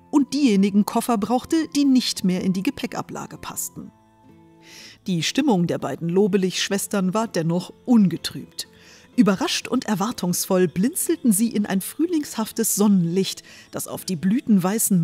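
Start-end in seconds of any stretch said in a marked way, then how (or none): none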